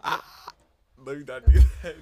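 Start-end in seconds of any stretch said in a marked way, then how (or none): 0.0-0.5 blowing into the microphone; puffed cheek blow. Real, not acted. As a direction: air blown into the mic. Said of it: "Stop blowing into".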